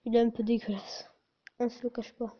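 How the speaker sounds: slightly strained, sore-throated speech. Real, not acted. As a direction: talk through a sore throat. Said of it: "j'ai mal à la gorge".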